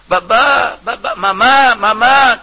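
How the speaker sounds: put-on high, loud calling of a small child; child crying out. Preacher voicing his small daughter calling through the door. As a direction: cry out for papa and mama like a little girl.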